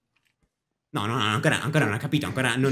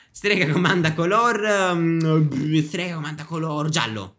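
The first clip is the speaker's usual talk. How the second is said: game call; 3 semitones higher, slower than usual. Acted. Witch calling out game command.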